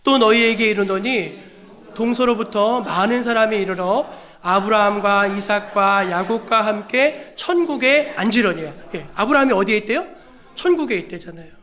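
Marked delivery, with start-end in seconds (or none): 0.0-8.7 measured, emphatic Bible reading; slow, deliberate recitation; scripture reading. Real, not acted. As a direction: read the verse out solemnly to the congregation. Reads scripture aloud to congregation.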